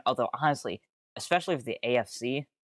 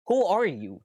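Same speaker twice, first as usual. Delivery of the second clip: exasperated; 8 semitones higher, 5 dB louder than usual. Real, not acted. Streamer addressing absent player.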